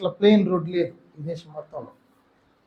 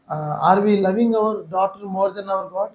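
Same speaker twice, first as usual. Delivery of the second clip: very slow, every word drawn out; slow searching question; 3 dB quieter, much slower than usual. Retold or imitated. Asking his weeping wife on the train, very slow. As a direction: ask it slowly, letting each word land. Asks wife over sick daughter.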